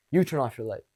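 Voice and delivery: calm, flat command; dominant tone. Retold or imitated. Supervisor to coworker, calm dominant command. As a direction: state it, no argument. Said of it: "No, it was".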